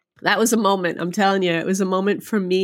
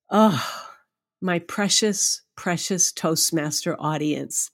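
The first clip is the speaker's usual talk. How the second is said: tender address; 2 semitones lower, slower than usual. Retold or imitated. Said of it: "and I said".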